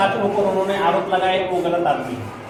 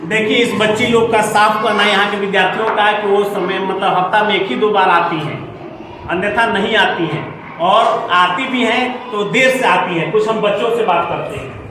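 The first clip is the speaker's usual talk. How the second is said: news piece to camera. Acted. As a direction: address the camera like a field reporter. Reporter sums up for camera. (कैमरे से बात करता reporter)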